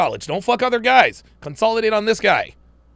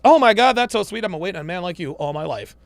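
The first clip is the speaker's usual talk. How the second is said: mock gushing woman. Mocking woman gushing over date.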